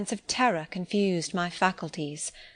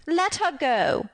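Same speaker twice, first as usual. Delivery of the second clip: higher, slow, cold order; curt command; 7 semitones higher, slower than usual. A narrator's reading. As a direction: cut her off coldly. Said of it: "was the only answer".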